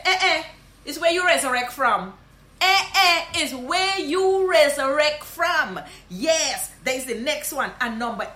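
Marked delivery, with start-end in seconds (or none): 0.0-2.1 surprised Guyanese greeting. Shown as a demonstration. Guyanese teacher surprised to see a lost friend. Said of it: "you just see them and say". 2.6-5.8 high, loud, slow Guyanese Creole surprise; amazed, drawn-out; surprised Guyanese greeting. Shown as a demonstration. Guyanese teacher surprised to see a lost friend. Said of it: "you just see them and say".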